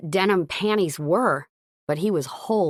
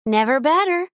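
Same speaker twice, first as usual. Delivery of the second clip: laughing; 9 semitones higher, 4 dB louder than usual. Acted. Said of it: "she laughed".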